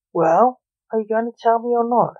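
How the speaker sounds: a touch of an impatient snap; snapping father. Acted. Impatient father demands his son speak, mild snap. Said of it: "Blake snapped".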